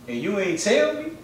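high, loud accusing tone; indignant disbelief. Retold or imitated. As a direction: act betrayed and incredulous. Confronting girlfriend, retold.

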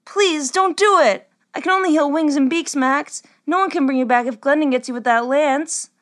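put-on high-pitched, worried girl's plea; anxious pleading. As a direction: beg him, voice high with worry. Corley begs Max not to joust.

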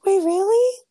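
gasp, then a sharp high "wait, really?"; genuinely shocked and delighted; surprised gasp. Real, not acted. Friend reveals first video news.

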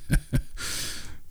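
a short soft chuckle; soft laugh. A narrator's reading. Terry laughing at Julius's donkey joke, soft chuckle. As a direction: chuckle under the breath, barely voiced. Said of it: "Terry laughed".

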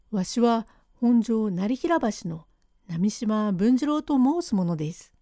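put-on slowing right down so a deaf old man catches every word; speaking up. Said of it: "もっと大きな声でお話しなせえ".

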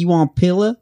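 put-on Southern woman's question; imitated Southern accent. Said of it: "a Southern accent just does not make sense".

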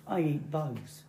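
soft, lightly voiced goose; a deadpan hint of a goose; joke goose. Goose answering the frog, understated and soft. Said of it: "the geese goes".

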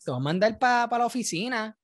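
put-on half-laughing teacher telling a kid off; mock teacher scolding. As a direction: play the school principal catching the class clown.

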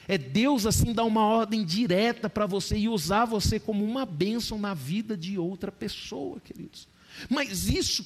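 loud, high preaching to the congregation; rising fervent sermon voice; full-force preaching. Acted. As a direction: drive the point home like a revival preacher.

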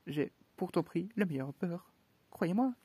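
insist, almost begging; pleading Hare. Acted. The March Hare defending his butter to the Hatter, pleading.

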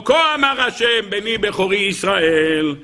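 drawn-out, slow declaiming of a verse; solemn proclamation. Acted. Teacher declaims God's message to Pharaoh, solemn and drawn-out. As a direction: proclaim it slowly, stretching the words.

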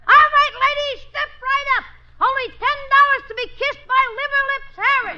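barker call. Acted. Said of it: "Look, it's a cinch".

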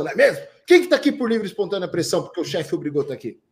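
loud, upbeat greeting to the crowd; energetic speaker warming up the audience; lively opener. Shown as a demonstration. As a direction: hype the room like a fun speaker. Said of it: "começa com uma boa história".

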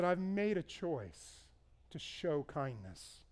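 quiet resolve. Retold or imitated. Front-desk worker recalling her choice, slow and soft. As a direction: let it settle, slowly and softly.

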